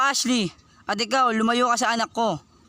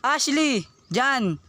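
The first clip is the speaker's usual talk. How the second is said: sharp high call of a name; 5 semitones higher, much slower than usual. Acted. Father calling daughter out of the house: high sharp call.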